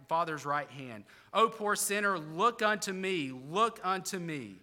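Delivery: a touch of impassioned exhortation; lay preacher. Retold or imitated. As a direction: plead with sinners in a rhythmic pulpit cadence. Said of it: "followed up in hi-, his text in this way".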